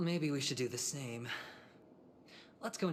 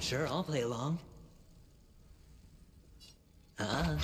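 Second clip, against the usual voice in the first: loud, higher mocking retort; battle taunt; 4 semitones higher, 4 dB louder, faster than usual. Fighter answering the boss's taunt, loud cocky call. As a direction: shout it back cockily.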